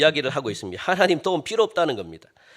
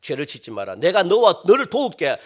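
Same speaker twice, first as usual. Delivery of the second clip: God's gentle warning. Retold or imitated. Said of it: "경고 주잖아요".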